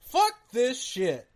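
loud, high, slow fed-up outburst; exasperated swearing. Real, not acted. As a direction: swear loudly, drawing each word out. Host fed up with the game.

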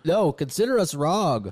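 talking through a lungful of smoke; words pushed out with smoke; exhaling smoke. Real, not acted. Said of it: "literally exhaling smoke as I say".

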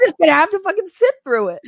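raspy, laughing croak; hoarse voice. Real, not acted. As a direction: croak it out like a dying horse. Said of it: "I'm gonna sound like a dying horse".

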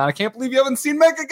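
high, fast disbelieving exclamation; high-pitched rapid outburst of disbelief; incredulous. Real, not acted. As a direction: blurt it out, amazed he hasn't been. Friend hasn't played the patch.

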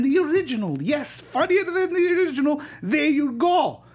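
hammed-up Greek uncle voice; Greek accent. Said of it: "in my Greek accent".

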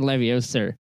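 Leviosa ending in an R sound, Leviosar. Retold or imitated. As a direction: say Leviosa the British way with an R. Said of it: "putting an R after the A".

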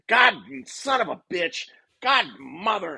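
high, yelled cursing; angry cussing. Retold or imitated. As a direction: swear at the top of your voice. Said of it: "and he's pissed".

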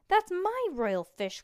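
high, loud, slow outcry; crying out. Acted. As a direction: wail it out in protest. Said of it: "cried Stink".

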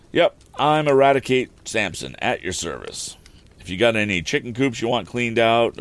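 a rustic carter explaining himself, lightly put on; rambling wagon driver.

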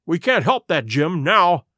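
urgent urging. Acted. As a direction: push him to run for it.

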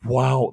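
"Wow" blown out with a puff of air; puffed mouth blow. Shown as a demonstration. Showing the Portuguese sentence-ending puff, "Wow" blown out. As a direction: let "Wow" burst out on a breath. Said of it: "that puff".

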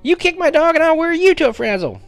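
put-on very high-pitched angry little boy; fierce child's yell. A narrator's reading. Little brother defending the dog, yelling fiercely. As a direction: yell fiercely in a small boy's voice. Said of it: "he yelled fiercely".

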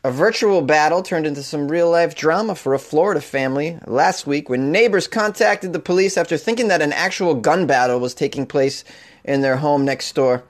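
put-on a light Boston accent on the news read; hint of Boston newscaster. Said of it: "I sounded so Boston there".

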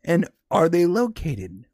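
whispered, slow sinister question; menacing whisper. Retold or imitated. Dennis threatening the phone operator in a slow menacing whisper. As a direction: lean in and whisper it slowly, threatening.

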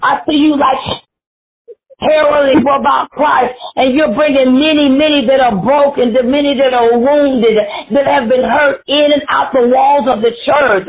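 urgent, rolling preacher cadence; prophesy over them with punched phrases; fervent prophecy. Real, not acted.

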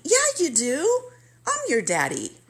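the father announcing himself on the phone; father's voice. Retold or imitated. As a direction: voice the old dad claiming her.

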